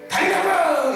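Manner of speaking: high, loud demanding shout; childish yell. Retold or imitated. Child yelling demands at parents, loud high shout. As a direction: shout like a kid throwing a fit. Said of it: "이러지 말고".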